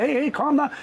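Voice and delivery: high-pitched hushing appeal; urgent placating. Retold or imitated. Man to girlfriend who snapped, urgent placating. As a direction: try to settle her quickly.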